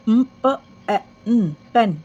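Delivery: slow letter-by-letter blend ल, ए, ड into लेड; phonics sounding out. Shown as a demonstration. Teacher sounding out a word for young learners, slow and clear. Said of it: "three letter words".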